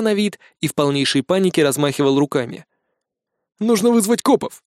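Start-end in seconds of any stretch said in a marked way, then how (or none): 3.6-4.6 high, urgent exclamation; an alarmed high cry to call the cops; exclaiming. A narrator's reading. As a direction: blurt out the alarm. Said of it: "воскликнул Бальник".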